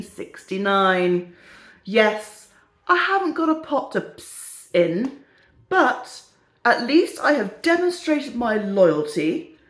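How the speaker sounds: slow, deliberate reading aloud; mock-earnest letter reading. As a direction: read it out slowly like a solemn complaint. Reads a reader's letter aloud.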